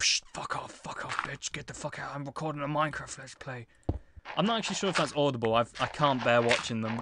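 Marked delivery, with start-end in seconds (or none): 0.0-3.7 hushed whisper, under the breath. Recalling telling their sister to leave while recording a video, retelling own whisper. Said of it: "whispered saying".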